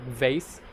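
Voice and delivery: "vase" opening on a distinct V; V sound. Shown as a demonstration. Co-teacher giving V examples, "vase" with clear V. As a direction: say "vase" with a buzzing V, not W. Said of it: "V sound is really different".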